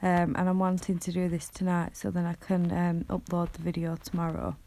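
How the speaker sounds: tired, croaky late-night voice. Real, not acted. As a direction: talk through a croaky throat. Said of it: "apologies for my croaky voice".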